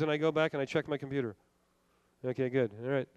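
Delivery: imitating himself checking stocks on the sly; sneaky hush. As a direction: mutter it like sneaking a peek. Acting out sneaking to computer.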